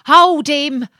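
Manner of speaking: a water rat yelling after the boat; rat's cry. Acted. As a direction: shout for them to stop him. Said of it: "as he cried to the chips".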